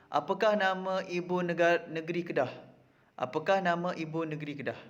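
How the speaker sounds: "Apakah nama ibu negeri Kedah" read as a careful question, falling at the end; question intonation. Shown as a demonstration. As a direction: raise "Apakah nama", then let "Kedah" fall. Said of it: "Baca ayat berikut dengan intonasi yang betul".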